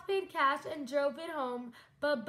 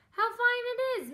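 laughing; 8 semitones higher, 3 dB louder than usual. Acted. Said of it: "Miss Spider laughed".

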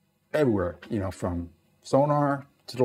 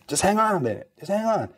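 tense calming; 9 semitones higher than usual. Retold or imitated. Calming officer during failed launch.

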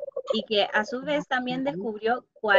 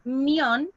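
mión held as the stronger syllable; stressed mión, shown on its own. Shown as a demonstration. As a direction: give mión more weight. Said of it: "que suena más fuerte".

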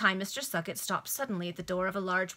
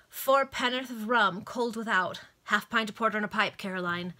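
louder, quick bar orders; calling out orders; 2 semitones higher, 5 dB louder than usual. Acted. Customers calling orders to the landlord, raised voices. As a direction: shout it over the din.

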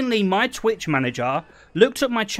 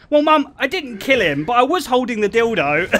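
raised voice, pitched up for bystanders; said loudly; 4 semitones higher, 4 dB louder than usual. Retold or imitated. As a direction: re-enact a loud, embarrassing announcement to mum. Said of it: "I literally said really loudly".

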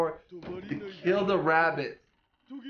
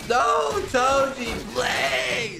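pleading shout; 5 semitones higher, much slower than usual. Real, not acted. Pleading with character on screen.

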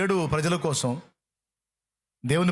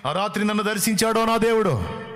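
fervent exclaim; 4 semitones higher, 4 dB louder than usual. Real, not acted. Preacher exclaims about God's visit.

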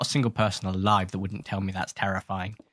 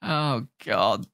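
usual speaking voice

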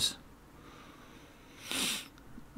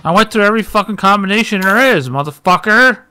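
fast, louder, higher furious rant; angry rant; 4 semitones higher, 4 dB louder, faster than usual. Real, not acted. Gamer who tried every combination, ranting fast and loud in fury. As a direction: spit it out, fed up with every failure.

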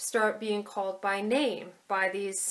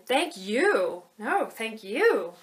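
"you" in "thank you" louder and falling; stress on you; 4 dB louder, much slower than usual. Shown as a demonstration. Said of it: "the word you is actually emphasized".

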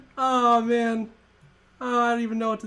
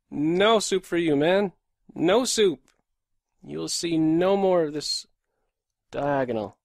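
louder, taunting quote; gloating; 3 semitones lower, 4 dB louder than usual. Real, not acted. Streamer taunting the chess opponent, gloating. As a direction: rub it in to the opponent.

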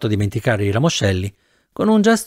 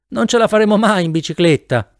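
raised, high-pitched protest; calling into wind; 7 semitones higher than usual. A narrator's reading. Passenger on the tandem protesting against the wind, voice raised. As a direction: call out against the headwind. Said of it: "dissi controvento".

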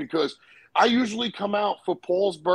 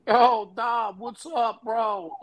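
lively, higher-pitched imitation of a buddy; casual bro hello, pitched up; friend's phone greeting; 4 semitones higher, much slower than usual. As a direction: greet an old pal in a raised voice. Friend's greeting voiced from phone call.

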